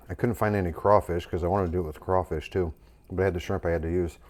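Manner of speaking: talking through a mouthful; mouth full. Real, not acted. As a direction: speak around a bite of food. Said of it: "I'm talking with my mouth full".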